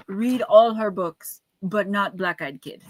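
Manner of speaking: slow, hammed-up Russian accent. The doctor warning other patients, in a slow mock Russian accent. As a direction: warn everyone, slowly, in a bad Russian accent. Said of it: "it's a horrible accent".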